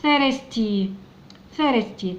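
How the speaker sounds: thirsty said slowly, each sound clear; word modelled for learners. Shown as a demonstration. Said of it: "ندخل على الإس مع التي مع الواي". (نطق thirsty ببطء ووضوح)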